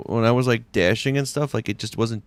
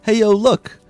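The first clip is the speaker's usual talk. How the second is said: imitating his son; 10 semitones higher, 6 dB louder than usual. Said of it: "He just goes".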